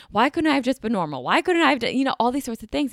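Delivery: spiraling questions to her therapist, panicked; retold panic. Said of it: "And then I started to panic".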